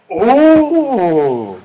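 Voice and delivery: loud delighted gasp of oh; big wide-eyed oh; excited oh. Acted. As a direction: gasp it out like thrilled children. Children exclaiming at cake.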